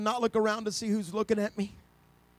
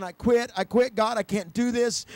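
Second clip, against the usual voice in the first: loud desperate cry, easing off; retold screaming; 4 dB louder than usual. Preacher reliving his breakdown in the hotel room, loud mock cry. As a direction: cry out in defeat, half re-enacted. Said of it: "and I started screaming".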